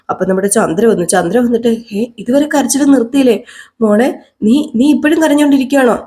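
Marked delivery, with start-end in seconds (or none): 2.0-5.9 higher, lightly voiced auntie surprised she is still crying; concerned aunt. Aunt asking the crying girl why she still weeps, higher fussing voice. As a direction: ask in a higher, fussing aunt's voice.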